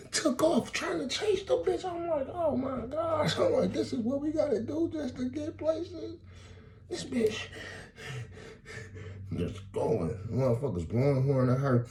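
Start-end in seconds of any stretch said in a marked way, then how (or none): 0.1-7.4 squeaky, raised storytelling voice; high-pitched excited. Retold or imitated. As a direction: tell it high and amazed. Amazed retelling, very high.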